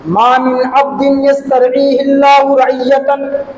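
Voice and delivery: slow, sustained recitation on a level pitch; measured scriptural quotation in a preacher's voice; Arabic hadith recitation. Real, not acted. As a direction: recite the Arabic slowly and solemnly. Recites Arabic hadith within sermon.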